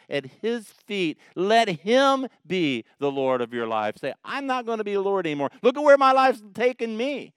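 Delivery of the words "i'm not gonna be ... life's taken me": a hint of a desperate confession, rising higher; pleading, fast then louder; mild mock plea of a worn-out sinner; sinner's plea. Voiced prayer of surrender.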